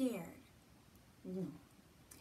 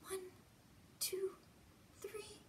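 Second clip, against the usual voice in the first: rising playful count; 10 semitones higher, 7 dB quieter than usual. Acted. Counting blinks for kids.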